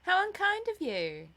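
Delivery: high, loud amused reproach; laughing. A narrator's reading. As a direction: tease your brother merrily.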